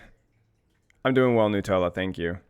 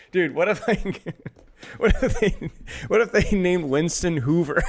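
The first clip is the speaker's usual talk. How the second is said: laughing; 4 semitones higher than usual. Retold or imitated. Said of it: "I was like".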